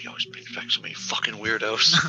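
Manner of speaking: quiet, muttered whisper. Speaker acts out what they whisper to themselves: whispering to oneself. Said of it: "I just whisper to myself".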